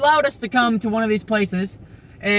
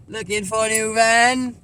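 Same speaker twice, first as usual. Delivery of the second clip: slow, stretched "Looking for a new van"; drawn-out repeat; slower than usual. Pretend. Vlogger echoing himself about van hunting, drawn out. Repeats own words for effect.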